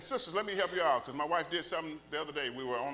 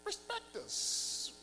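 soft plea; 13 semitones higher, 6 dB quieter than usual. Real, not acted. Pleading softly for respect.

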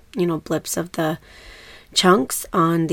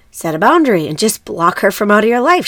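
louder, imitating a pushy online commenter; mock emphatic advice; 3 semitones higher, 6 dB louder than usual. Host mimics Facebook group replies about a mother-in-law, mock emphatic. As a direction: push it out as mock know-it-all advice.

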